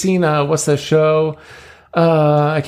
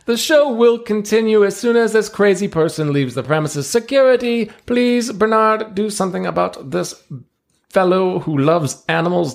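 showman ringmaster; 10 semitones higher than usual. Acted. Ringmaster presenting seals to the crowd, grand showman voice. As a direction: play the circus ringmaster working the crowd.

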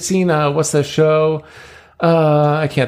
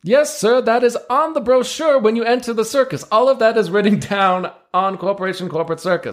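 showman ringmaster; 10 semitones higher than usual. Acted. Ringmaster presenting seals to the crowd, grand showman voice. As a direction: play the circus ringmaster working the crowd.

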